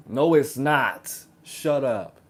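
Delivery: emphatic, mock-angry shutdown; sharp retort. Man answering the partner he just acted out, sharp retort. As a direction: cut them off hard, drawing out the refusal.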